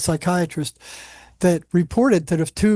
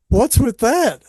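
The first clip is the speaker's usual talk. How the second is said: laughing; 6 semitones higher, 4 dB louder, slower than usual. Retold or imitated. Laughing while quoting himself.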